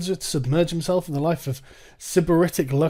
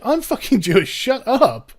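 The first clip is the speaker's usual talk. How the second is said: retorting Jewish guy; 7 semitones higher, 4 dB louder, slower than usual. Retold or imitated. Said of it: "and he was just like".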